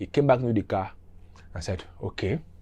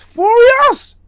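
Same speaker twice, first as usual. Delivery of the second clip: emphatic; 14 dB louder than usual. Real, not acted. Emphatic narration.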